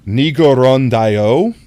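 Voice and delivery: Japanese phrase in a slow American accent. Shown as a demonstration. Streamer giving a Japanese example to chat, American accent. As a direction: sound it out slowly with American vowels. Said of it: "say it with an American accent".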